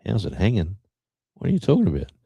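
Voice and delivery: lightly acted outsider's bewilderment; puzzled outsider. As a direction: play the baffled tourist. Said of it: "you'll go".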